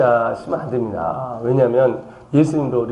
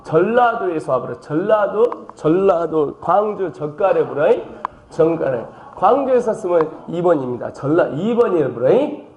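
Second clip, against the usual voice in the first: lightly put-on Jeolla accent, bit higher; mock Jeolla dialect; 4 semitones higher than usual. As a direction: play a Jeolla local showing off. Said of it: "딱 들어도 경상도 사람 같죠?". (장난스러운 전라도 사투리)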